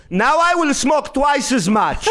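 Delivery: high, slow, emphatic imitation of mother; defiant mom. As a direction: fire back as a defiant mother, each word drawn out. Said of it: "my mom, without missing a beat, she goes".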